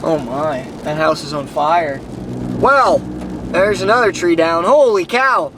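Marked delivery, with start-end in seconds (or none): 2.6-5.5 surprised. Real, not acted. Storm damage, tornado trees down.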